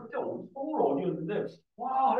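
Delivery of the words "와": high "와!" at normal volume; a high "와!" of wonder; mock awe. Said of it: "해". (높게 "와!" 하고 감탄)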